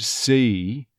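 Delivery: "see" as "suh-ee"; stressed on-glide. Shown as a demonstration. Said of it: "if you really stress it".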